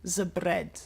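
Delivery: trying a German R in "bread"; German accent, "The" said as "ze"; attempted German accent. Shown as a demonstration. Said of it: "Just don't build your tongue when you say an R".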